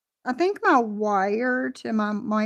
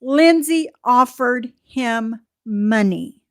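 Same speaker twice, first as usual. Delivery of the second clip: mocking; 4 dB louder, slower than usual. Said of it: "the next word out of her mouth is".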